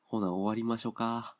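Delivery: light Kansai-ben wrap-up, ほな at the front; mock Kansai dialect. Host closing his podcast to listeners, in playful mock Kansai dialect. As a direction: ease into Osaka dialect for ほな、終わりましょうか. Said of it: "関西弁で喋るって言ってるのも".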